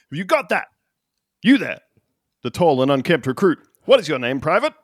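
lightly voiced drill sergeant; a hint of barking orders. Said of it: "I'll be your drill sergeant".

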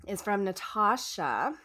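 just swallowed coffee; speaking right after a sip; while sipping a drink. Real, not acted. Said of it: "take a sip of my coffee".

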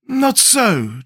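high-pitched contradiction; decisive objection. A narrator's reading. Scarecrow overrules Tip's decision.

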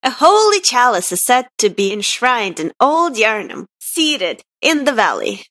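measured character reading with swooping stresses; Gurman. Acted. Cohost reads the game note, best character impression. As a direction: read the note in a lightly put-on character voice. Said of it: "I'll do my best Gurman voice".

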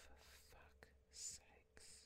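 slow whispered swear of frustration; whispered curse. Real, not acted. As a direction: let it out as an exasperated whisper.

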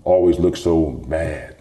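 lightly put-on accent, drawing out the question; Akeem Olajuwon. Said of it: "in that, in that accent".

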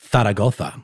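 Zaragoza with a lisped th for each z; Castilian pronunciation. Shown as a demonstration. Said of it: "I've been waiting a long time to be able to say this properly".

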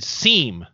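Seam said like Portuguese sim, with a nasal vowel; mocking Portuguese yes. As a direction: tease him by drawing out Seam the Portuguese way. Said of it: "making fun of, like, uh, the Portuguese word for yes".

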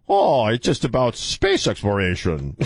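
hammed-up mock Chinese accent; corny fake Chinese accent; cheesy Chinese accent. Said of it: "cheesy Chinese accent".

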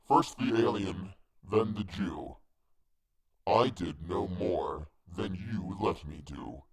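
measured hangman's voice, slowing at the end; accusing hangman. A narrator's reading. Hangman blaming the narrator for allowing it, measured accusation. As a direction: lay out the charge as the hangman, slowing down.

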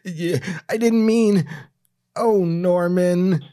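high, slow hangdog whine; sorry sob in a bad droopy dog voice; droopy dog impression. The speaker pleading with Norman in a bad droopy dog voice. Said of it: "a bad droopy dog impression".

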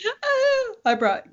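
giggling through the words; can't get it out for laughing; laughing fit. Real, not acted. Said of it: "She can't even talk".

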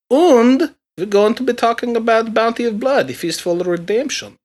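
hammy bad German accent; cheesy movie-villain German accent. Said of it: "bad German accent or something".

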